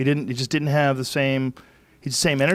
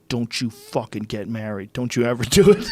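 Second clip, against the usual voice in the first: half-joking warning. Retold or imitated. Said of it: "He was half joking and half serious".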